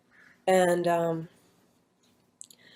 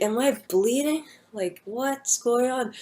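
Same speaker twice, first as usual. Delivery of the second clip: confused question; 5 semitones higher, slower than usual. Retold or imitated. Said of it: "And I'm like".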